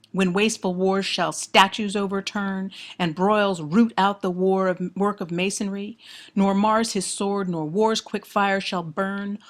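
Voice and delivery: firm, declaimed verse reading; poem recitation. Acted. Lecturer quotes the verbs of destruction, declaimed recitation. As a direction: recite with weight on each image. Reads the sonnet aloud.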